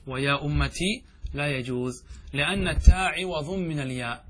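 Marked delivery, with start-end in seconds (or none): 0.1-1.0 lengthened questioning "tii" ending on أمتي; ya after ta. Shown as a demonstration. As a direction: hold the final ee of أمتي, "ummatii". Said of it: "هل نجمع بين الياء والتاء؟".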